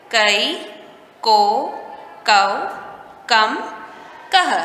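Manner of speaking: का, की, कु said one at a time with clear pauses; teacher drilling क का कि की aloud; reciting syllables. Shown as a demonstration. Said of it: "क में आ की मात्रा लगाएं तो क्या हुआ".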